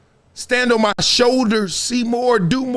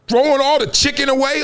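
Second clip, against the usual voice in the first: mock shout; 6 semitones higher than usual. Describing a wild mourner.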